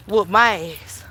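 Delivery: ordinary delivery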